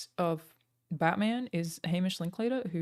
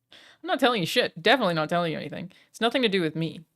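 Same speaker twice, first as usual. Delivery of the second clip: mock defiant refusal; 6 dB louder, faster than usual. Real, not acted. Refusing to leak GTA info.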